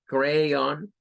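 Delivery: crayon slow, ending on a clear on; crayon, the last syllable like Spanish on. Shown as a demonstration. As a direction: crayon demonstrated slowly. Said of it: "como on".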